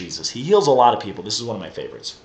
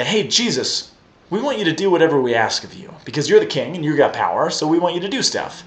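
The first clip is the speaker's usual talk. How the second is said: mock-eager request, quick and a bit higher; lightly voiced eager disciples; 4 semitones higher than usual. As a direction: imitate followers pushily asking a favour. Voices two disciples demanding favours.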